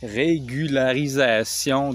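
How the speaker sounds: slow, syllable-by-syllable "Régularisation"; careful pronunciation. Real, not acted. Struggling to say a hard word, careful "Régularisation". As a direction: work carefully through "Régularisation", drawn out. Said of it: "j'ai de la misère".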